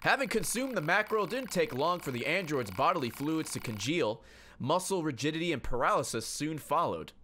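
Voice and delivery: story narration. Acted. Reads game narration aloud.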